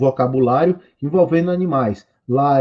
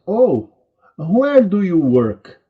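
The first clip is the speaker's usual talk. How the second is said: acted question; 4 semitones higher, 4 dB louder, much slower than usual. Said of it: "Então eu pergunto".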